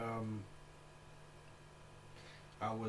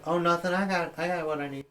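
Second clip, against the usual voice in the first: higher, louder mock-innocent reply; retold polite refusal; 7 semitones higher, 5 dB louder than usual. Passerby turning down an armed stranger, mock-innocent. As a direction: brush him off in a raised, harmless voice.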